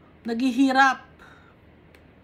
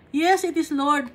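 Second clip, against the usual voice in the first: eager reply; 3 semitones higher than usual. Acted. Preacher voicing the woman's reply.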